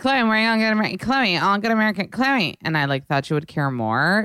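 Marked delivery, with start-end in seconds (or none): 0.0-2.6 high, hammed-up excited chatter; mock-excited, insistent high voice; eager showing off. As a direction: pester a friend to notice, pitched way up. Retelling her eager plea for attention.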